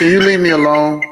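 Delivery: fake-fed-up, get away from me; half-joking exasperated call; mock annoyed outburst. Real, not acted.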